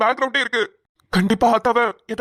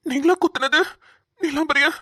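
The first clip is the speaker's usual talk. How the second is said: stunned disbelief; 4 semitones higher than usual. Acted. Stunned questioning of the old woman.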